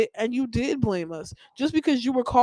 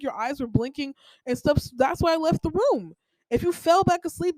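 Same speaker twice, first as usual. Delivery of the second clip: higher, sharp retort with attitude, much higher; attitude right back; 5 semitones higher, 3 dB louder than usual. Retold or imitated. Daughter snapping back at mom over the wake-up, with attitude. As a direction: fire the attitude back at her, level eleven. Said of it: "all the attitude she gave me, I gave it to her right back".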